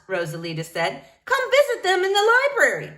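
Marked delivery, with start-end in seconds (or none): 1.3-2.9 proud librarian voice. Acted. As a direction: show off the doves grandly. Rosalita invites girl.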